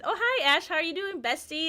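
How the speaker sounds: high, sing-song hello to a friend; sweet greeting. Retold or imitated. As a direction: gush a little over your bestie. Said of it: "and then I said".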